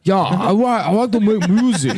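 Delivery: high-pitched silly singer voice; a famous singer. Shown as a demonstration. Singer saying he wants to make music, high put-on voice. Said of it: "This is me, a famous singer".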